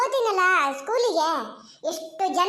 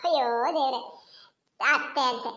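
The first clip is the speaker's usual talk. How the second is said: scoffing exclamation; 9 semitones lower than usual. Acted. Girl scoffs at the idea.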